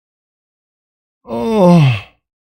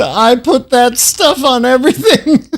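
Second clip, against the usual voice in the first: a mock ad line, a little higher, broken by laughter; quoting the ad, laughing; 4 semitones higher than usual. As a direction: recite the ad slogan while giggling. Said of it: "the Frank's Red Hot commercial".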